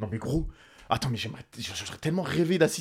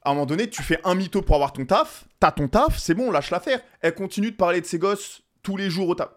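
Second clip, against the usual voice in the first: escalating comedy rant; 4 semitones higher than usual. Real, not acted. Exasperated rant continues.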